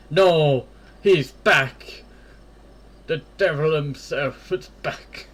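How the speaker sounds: loud, startled cry at the dog's return; alarmed shout. Real, not acted. Player yelling at the returning dog, loud and alarmed. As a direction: yell it out as the menace reappears.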